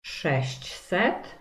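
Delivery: "Sześćset" with both ś and ć sounded; full careful pronunciation. Shown as a demonstration. Teacher showing pupils the unsimplified numeral, full "Sześćset" with ć. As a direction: say "Sześćset" fully, keeping the ć before set. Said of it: "możemy wymówić jak".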